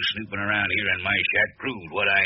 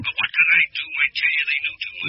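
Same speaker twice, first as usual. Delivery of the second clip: higher, louder desperate pleading; pleading protest; 8 semitones higher, 4 dB louder than usual. Acted. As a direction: whine your excuse to the boss. Henchman pleads with angry boss.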